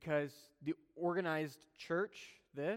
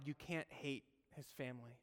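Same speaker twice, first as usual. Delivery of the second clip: earnest, much softer; 3 semitones lower, 11 dB quieter than usual. Real, not acted. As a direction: drop the voice to drive it home. Sermon point, dropped voice.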